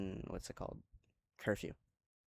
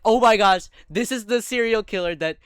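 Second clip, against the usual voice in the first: imitating a panicked girl, higher and louder; 5 semitones higher, 9 dB louder than usual. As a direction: act out her alarm at the axe-holder in a raised voice. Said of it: "She's like".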